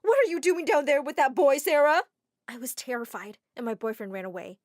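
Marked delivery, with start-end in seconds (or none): 0.0-2.0 loud, high scolding shout; angry yell. Acted. Mother yells down at her daughter with a boy, loud and angry. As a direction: catch her daughter red-handed. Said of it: "Mom yelled".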